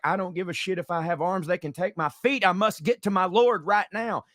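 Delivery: desperate Peter. Acted. Peter pushing through, rising.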